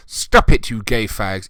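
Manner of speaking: hammed-up squeal at the start; mock shrieking girl. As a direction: shriek the "Stop it" like a bratty teen girl.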